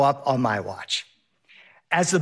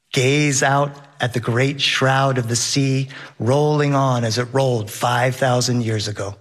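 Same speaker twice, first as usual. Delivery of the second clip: literary quotation; 4 semitones lower than usual. Retold or imitated. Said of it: "to quote Herman Melville".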